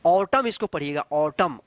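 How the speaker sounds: ऑटम said as "aw-tum", no n; silent final n. Shown as a demonstration. Teacher showing learners the silent N, correct pronunciation. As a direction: end ऑटम on the m, leaving n unsounded. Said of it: "एन silent रहता है".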